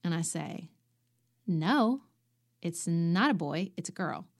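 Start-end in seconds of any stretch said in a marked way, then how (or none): 1.5-4.3 insistent denial. Retold or imitated. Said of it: "my insistence".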